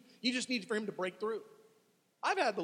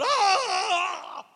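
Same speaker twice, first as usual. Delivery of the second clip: loud high wordless wail; anguished cry; 12 semitones higher, 11 dB louder than usual. Acted. Psalmist crying out to God, loud wordless wail. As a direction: let out a desperate cry. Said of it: "Those psalmists were crying out".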